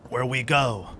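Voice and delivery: lightly guttural chieftain brushing off the warning; guttural giant chief. Acted. Giant chief scolds the stone giant, slow and lightly guttural. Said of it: "very guttural, tone to his voice".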